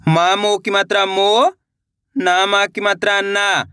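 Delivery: slow, drawn-out spelling recitation; teacher's slow spelling drill; spelling out slowly. Shown as a demonstration. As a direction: sound out each letter and vowel sign, slowly. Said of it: "एक बार फिर से देखिए".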